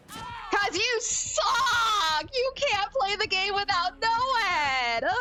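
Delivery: high, laughing mock shout at the killer; laughing taunt. Real, not acted. Taunting the killer who won only with Noed, laughing. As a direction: jeer through laughter, half crying it out.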